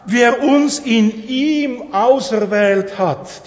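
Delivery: "in ihm" drawn out slowly and weighted; stress on IHM. Shown as a demonstration. Preacher asks listeners where the emphasis lies, stress on "ihm". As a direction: read it slowly, leaning on "ihm". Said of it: "Die Betonung ist auf was?".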